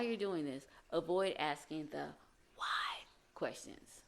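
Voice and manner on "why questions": whispered, slow and soft. Real, not acted. Aside on why questions.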